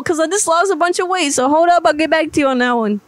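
a lightly voiced, brash, mouthy woman chewing out a caller; sassy furious prank-call woman. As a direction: play an angry, foul-mouthed single mom demanding her money. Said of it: "I just went full blown whatever that was".

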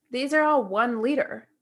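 ranting through laughter; laughing rant. Real, not acted. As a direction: giggle while complaining. Ranting about bottle, laughing.

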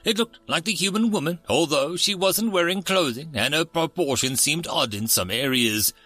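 steady storyteller reading aloud; story narration. A narrator's reading. Narrator reading a sci-fi story to listeners, storytelling voice. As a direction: carry the listener through the tale.

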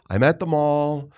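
high, slow, upset retelling; distraught daughter. Retold or imitated. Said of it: "Like, distraught".

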